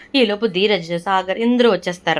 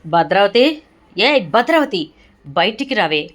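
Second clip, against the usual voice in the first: angry shouting; 3 dB louder than usual. Retold or imitated. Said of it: "గట్టి గట్టిగా అరుస్తూ ఉంటాడు".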